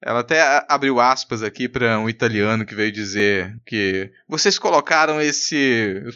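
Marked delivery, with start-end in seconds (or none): 4.3-6.0 put-on slow Portuguese with a light Italian accent. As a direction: imitate an Italian speaking Portuguese, drawn out. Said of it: "eu tô falando com o sotaque italiano". (português com leve sotaque italiano)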